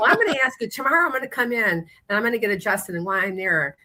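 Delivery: high, fast pushy voice; pushy shopper. Retold or imitated. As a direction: insist like a pushy fan. Shopper insisting, retold.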